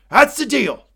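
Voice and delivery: loud, high scolding; angry. Acted. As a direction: snap the terms at them. Acting Logan scolding his kids.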